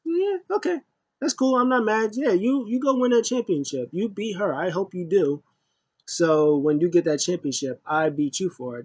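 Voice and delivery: high put-on voice, sarcastic and sweet; mocking Shayna impression. Vlogger mocking Shayna's promo, in a high sarcastic voice. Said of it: "she got on mic and she goes".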